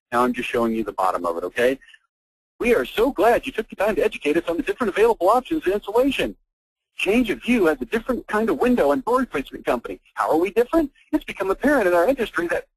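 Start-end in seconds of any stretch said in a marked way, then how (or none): 2.6-12.7 high singsong parody of corporate copy; mocking website read. Mockingly reads out client's website copy.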